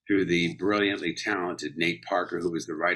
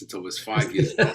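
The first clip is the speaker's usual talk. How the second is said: put-on childhood New York accent. Shown as a demonstration. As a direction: talk like a little New Yorker. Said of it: "I talked like this".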